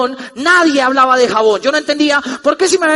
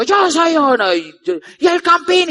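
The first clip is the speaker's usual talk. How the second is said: mock stadium chant, slightly higher; imitating the crowd's shout; 4 semitones higher, slower than usual. Speaker imitating the chanting crowd, light mock shout. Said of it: "y la gente gritó".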